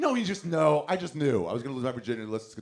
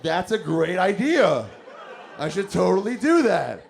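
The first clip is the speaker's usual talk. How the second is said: eager yes; 5 semitones higher, 7 dB louder, slower than usual. Retold or imitated. Self-talk, eager to throw.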